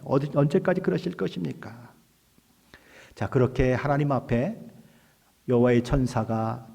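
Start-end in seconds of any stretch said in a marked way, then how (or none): 0.0-1.9 acted challenge, pitched higher; 따지듯이. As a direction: demand an answer as the angel would. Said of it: "따지듯이 이야기하는 것입니다". (따져 묻는 말투)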